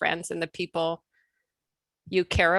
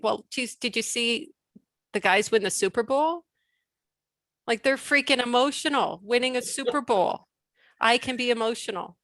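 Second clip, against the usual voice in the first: raised, emphatic comeback; indignant retort; 4 semitones higher than usual. Retold or imitated. Woman retelling her retort about being too emotional, raised and indignant.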